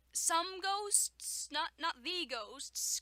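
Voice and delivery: "some" pitched high and loud, "the" stressed as "thee"; contrastive stress. Real, not acted. Reader querying the story's wording, stressing "some" against "the". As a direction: lean hard on "some" and "the", questioning.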